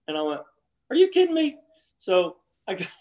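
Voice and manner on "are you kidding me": high, stunned "are you kidding me"; disbelief. Retold or imitated. Golfer learning his wife walked off, shocked disbelief. Told caddie wife left.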